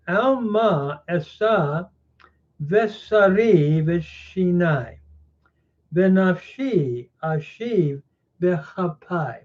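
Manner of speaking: slow, careful Biblical Hebrew reading, each syllable clear; reading Hebrew aloud. Shown as a demonstration. Teacher reading a Hebrew verse to his class, slow and careful. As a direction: read the Hebrew verse out slowly and deliberately. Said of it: "And so in verse fourteen, we continue".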